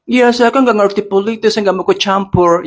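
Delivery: high, fast whiny clueless voice; mocking quote. Host parodies people who admit knowing nothing about politics, high fast whine.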